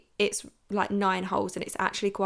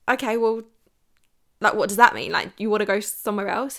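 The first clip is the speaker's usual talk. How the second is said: baffled; 6 dB louder than usual. Retold or imitated. Baffled by wrist-watch gesture.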